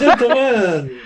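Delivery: hammed-up German officer saying "Gentlemen"; mock German accent on "Gentlemen". Shown as a demonstration. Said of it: "just say "gentlemen" one more time".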